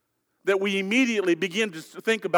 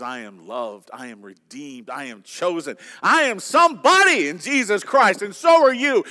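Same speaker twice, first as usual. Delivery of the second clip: building declaration; 4 semitones lower than usual. Acted. Pastor declares identity in Christ.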